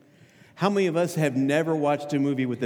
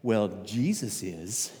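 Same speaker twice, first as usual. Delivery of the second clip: put-on child's answer; 6 semitones lower, 4 dB quieter, slower than usual. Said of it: "their phrase will, would be this".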